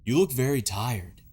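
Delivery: slow, lightly acted concern; concerned hero. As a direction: voice the caring hero slowly, pitch swooping. Voices Mario's concern for Luigi.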